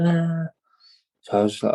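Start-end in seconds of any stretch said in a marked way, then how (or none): 0.0-0.5 imitated sister's scream. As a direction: act out a scream without full force. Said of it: "my sister screaming".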